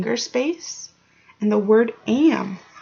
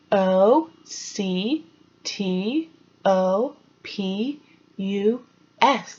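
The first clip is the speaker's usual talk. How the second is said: slow spelling; much slower than usual. Shown as a demonstration. Spelling letters slowly for kids.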